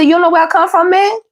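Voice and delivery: high-pitched questioning in a put-on accent; T I's accent. Reader quoting T I to viewers, high accent impression. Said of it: "Y'all know how T I talk".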